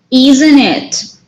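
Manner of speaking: "Isn't it" with a falling end; sure tag question. Shown as a demonstration. Teacher repeating the car example, sure falling intonation. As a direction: drop the end of "Isn't it", as if certain. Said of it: "when we are sure of the answer".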